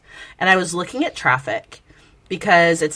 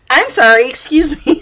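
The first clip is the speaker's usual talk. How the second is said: high, louder offended "excuse me"; indignant retort; 7 semitones higher, 5 dB louder than usual. Retold or imitated. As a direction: act outraged at the question.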